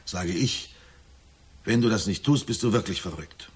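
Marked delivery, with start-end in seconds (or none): 1.6-3.5 retold outburst, louder; agitated. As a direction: push the words out in agitation. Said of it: "Mit einer Erregung sage ich". (erregt, lauter)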